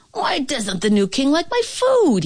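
high anguished cry from the cook; mildly high despairing wail; cried out. A narrator's reading. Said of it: "he cried".

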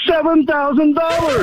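high, drawn-out excited shout. Real, not acted. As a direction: call out your winning total, slow and high. Caller proudly announces free silver total.

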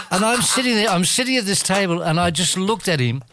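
can barely get it out for laughing. Real, not acted. Telling the radio host the story while laughing. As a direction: voice lifted, laughing through the words.

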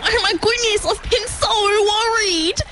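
very high, fretful cry; worried mother. Acted. Platypus mum hears her child is found, high and worried.

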